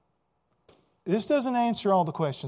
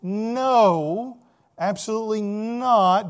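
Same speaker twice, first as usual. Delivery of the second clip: firm, louder emphatic denial; 3 semitones higher, 5 dB louder, much slower than usual. Real, not acted. Preacher emphatically denying earned salvation, firm and loud. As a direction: hit no and absolutely not hard. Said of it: "I can say emphatically".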